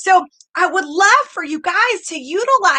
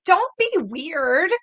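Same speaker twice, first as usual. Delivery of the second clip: slow deadpan quote; 3 dB quieter, much slower than usual. Retold or imitated. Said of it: "Like Michelle always says".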